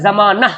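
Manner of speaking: जमाना ending "-nah", with sounded "h"; as written. Shown as a demonstration. Teacher reading out the spelling, जमाना as "za-maa-nah". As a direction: end जमाना on an audible "h". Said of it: "लेकिन लिखाता है".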